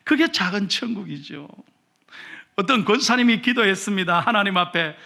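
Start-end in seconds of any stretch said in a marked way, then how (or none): none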